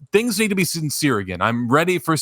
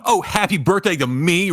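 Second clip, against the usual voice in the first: mock-witty movie one-liner; sarcastic; 3 semitones higher than usual. Fed-up viewer mocking modern films, sarcastic. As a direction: imitate a glib film character's quip. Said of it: "everything dripping with sarcasm".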